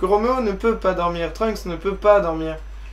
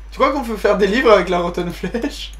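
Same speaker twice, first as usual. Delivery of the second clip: normal talking voice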